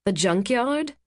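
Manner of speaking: junkyard rising high in surprise; surprised question. A narrator's reading. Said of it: "Kate raised an eyebrow".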